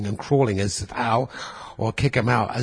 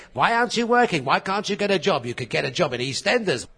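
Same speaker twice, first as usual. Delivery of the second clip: nagging relatives; 4 semitones higher than usual. Retold or imitated. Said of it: "all my relatives all saying".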